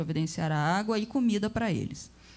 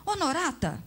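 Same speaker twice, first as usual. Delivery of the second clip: shocked mother; 8 semitones higher than usual. Acted. Mother scolding daughter.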